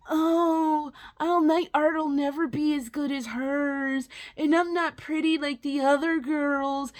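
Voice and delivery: a light mocking whiny girl voice; mocking whine. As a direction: imitate her whining, only lightly. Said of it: "the bitch whining".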